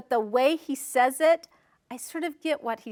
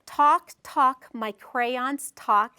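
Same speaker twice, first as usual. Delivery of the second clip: rhythmic chorus; slower than usual. Shown as a demonstration. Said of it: "there's a little chorus that says".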